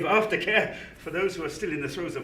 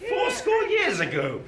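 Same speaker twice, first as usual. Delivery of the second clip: slow, high, half-crying cry; frightened wail; panicked protest; 8 semitones higher, slower than usual. Acted. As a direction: shout it out in terror at a ghost. Scrooge panics at the ghost.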